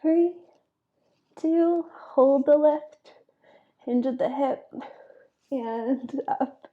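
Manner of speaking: straining mid-crunch, counting; talking through ab effort; doing sit-ups. Real, not acted. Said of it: "'Cause my abs are burning".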